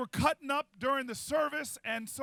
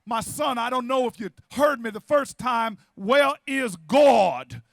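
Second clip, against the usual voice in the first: baritone pastor; 6 dB louder, slower than usual. Acted. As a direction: build to a loud, long-drawn final question. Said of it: "big man with his baritone voice".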